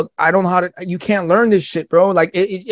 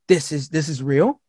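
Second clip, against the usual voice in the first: hushed, much softer stunned realization; stunned disbelief; 5 dB quieter than usual. Retold or imitated. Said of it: "I was like".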